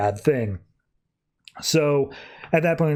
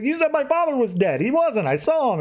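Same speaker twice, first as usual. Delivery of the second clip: put-on high childish voice, far higher than his own; kid voice; 11 semitones higher than usual. Recapping the comic, voicing young John as a child. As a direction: pitch it up like a sulky little boy.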